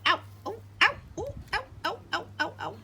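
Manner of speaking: startled little yelps of pain; ouch. Real, not acted. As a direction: yelp at a small bite. Pet bites her.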